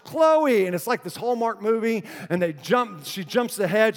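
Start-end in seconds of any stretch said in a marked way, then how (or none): 0.1-0.7 high, loud call of a searching mother; imitated yell. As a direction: act out yelling for a lost child. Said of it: "And Casey yells".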